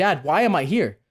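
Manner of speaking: mock furious, livid, bewildered, freaked-out tone. Retelling asking dad why he is in hospital: retelling own livid anger. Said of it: "I'm livid".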